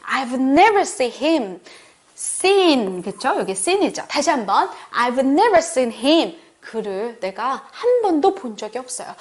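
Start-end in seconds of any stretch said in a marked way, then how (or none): 0.1-1.6 "never" stressed in a slow model sentence. Shown as a demonstration. Teacher showing how to emphasise, stress on "never". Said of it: "한 번도 라고 강조를 해볼게요". 4.9-6.4 "never" emphasised, slow repeat; slowly, with the weight on "never"; stress on never. Shown as a demonstration. Teacher repeating the corrected sentence, stress on "never". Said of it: "한 번도 라고 강조를 해볼게요".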